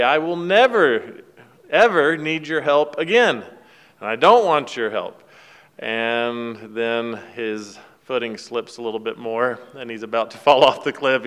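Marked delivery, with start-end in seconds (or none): 0.0-5.2 hammed-up yell after someone walking away; mock yell. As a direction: son shouting after his father, mock yell. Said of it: "he yells at him".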